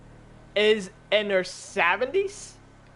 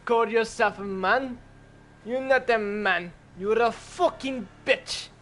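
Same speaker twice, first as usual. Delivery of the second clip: put-on Russian accent; 3 dB quieter than usual. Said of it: "in a Russian accent".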